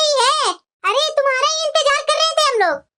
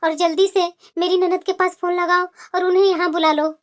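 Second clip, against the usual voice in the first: tearful apology; 5 semitones lower than usual. Acted. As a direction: apologise with a lump in the throat. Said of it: "आप इस तरह से रो रहे हैं".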